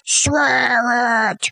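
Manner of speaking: low, slow ghostly order; ghost command. Acted. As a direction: boom it from beyond.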